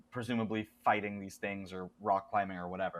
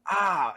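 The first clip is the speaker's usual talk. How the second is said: short, higher, louder cry; mock scream; 6 semitones higher, 6 dB louder than usual. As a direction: imitate a brief scream at moderate force. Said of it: "and screamed".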